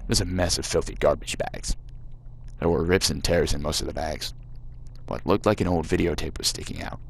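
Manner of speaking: put-on reading the game text in a light American accent. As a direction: narrate it like an American storyteller, gently put on. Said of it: "I'm really regretting doing the American voice now".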